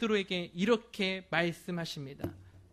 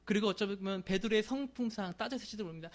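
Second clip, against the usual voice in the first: ordinary talk, nothing marked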